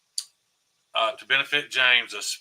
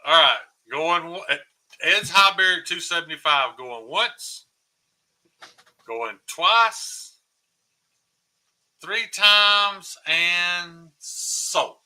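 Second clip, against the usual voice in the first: auctioneer; 4 semitones higher, much slower than usual. Acted. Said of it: "He is gonna be an auctioneer".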